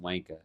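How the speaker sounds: WANKER ending in "uh" instead of "er"; dropped final R. Shown as a demonstration. Summing up the British difference, WANKER without final R. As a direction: finish WANKER on an open vowel, no R. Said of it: "saying uh instead of er".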